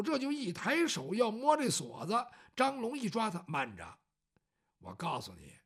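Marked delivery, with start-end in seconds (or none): 3.5-5.5 much lower, softer restraint; low warning. Acted. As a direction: hold him back in a low voice. 张龙拦住赵虎. (张龙低声沉稳地劝阻)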